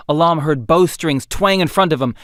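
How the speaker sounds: ordinary delivery, nothing marked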